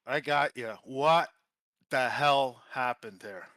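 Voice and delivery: loud, breathless disbelief; excited. Real, not acted. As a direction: burst out, still buzzing from the finish. Winner breathless after wild finish.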